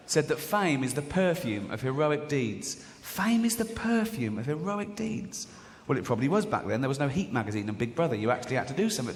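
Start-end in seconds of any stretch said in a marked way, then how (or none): 3.0-5.5 higher-pitched, slow repeat of the quote; wondering repeat. Acted. Quote repeated for comic effect.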